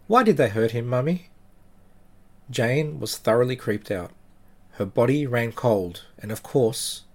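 steady, somber storytelling voice; story narration. A narrator's reading. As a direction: tell it like a creepy tale. Narrates the true ghost story.

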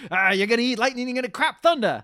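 gruff coach impression. Mick coaching Rocky.

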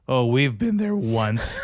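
drawn-out imitation with a voice crack; lightly mocked cracking voice. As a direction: slowly mimic a man whose voice cracks. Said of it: "pardon the voice crack. That's how he sounded".

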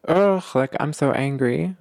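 exasperated groan into mildly angry complaint; acted anger. Someone coming to you upset, mock angry. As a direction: play someone mildly fed up. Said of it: "So someone's coming ... they're angry".

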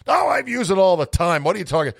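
a hint of a huffy father; dad voice. Dad's reply voiced in story.

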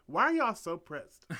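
mock-outraged why; exasperated. Real, not acted. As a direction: challenge the haters. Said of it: "indignant rhetorical question".

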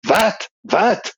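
a sleepy yogi jolted awake, barking out what twice; startled what. Retold or imitated. Yogi woken at night at his door, startled and high.

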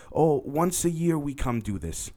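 slow rasping stranger's voice; raspy voice. Retold or imitated. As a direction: rasp it out, slow and eerie. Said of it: "in a very raspy voice".

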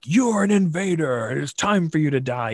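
a lightly voiced dragon declaring the intruders must die; mock-threatening dragon. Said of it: "I put on my dragon voice".

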